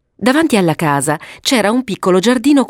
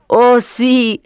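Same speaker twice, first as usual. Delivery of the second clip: put-on higher, eager little-boy voice; enthusiastic agreement; 5 semitones higher than usual. Papavero approving his sister's idea, enthusiastically. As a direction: jump in with childlike enthusiasm. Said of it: "approvò entusiasta Papavero".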